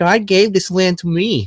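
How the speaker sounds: very high-pitched put-on New Jersey accent. Retelling what a girl applying sunscreen said: put-on new jersey accent. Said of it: "with her Jersey accent".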